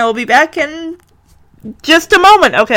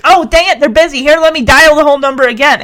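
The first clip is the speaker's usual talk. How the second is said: put-on frazzled caller, a bit higher; mock exasperation; 4 semitones higher than usual. Frustrated caller getting a busy line, mildly exasperated. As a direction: play someone mildly fed up with redialling.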